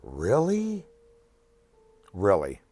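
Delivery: can't believe what he's hearing; incredulous. Real, not acted. Patient reacting to nurse ripping out his catheter, incredulous.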